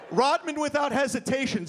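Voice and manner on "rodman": ordinary talk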